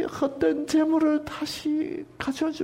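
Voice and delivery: high, softened chiding; gentle coaxing. Shown as a demonstration. Preacher voicing God as one who cares, gentle coaxing. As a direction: plead kindly in a high voice. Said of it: "이런 식으로 읽어야지".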